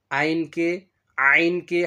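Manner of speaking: "আইন" with a distinct Ain, unlike Hamza; careful Ain. Shown as a demonstration. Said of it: "হামজার মতো উচ্চারণ করা যাবে না". ("আইন" হামজার মতো নয়, আইনের নিজস্ব উচ্চারণে)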